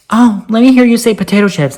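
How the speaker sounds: high, teasing imitation of a bully; mocking schoolkid. Schoolkids goad the speaker to say potato chips, mocking. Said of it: "Kids at school used to always make fun of me".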